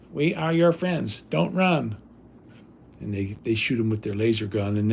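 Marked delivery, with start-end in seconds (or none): 0.1-2.0 slow, higher, lightly robotic alien; a hint of a movie alien; Mars Attacks alien. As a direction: intone it like a fake-friendly invader. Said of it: "like when Mars attacks, when the robots".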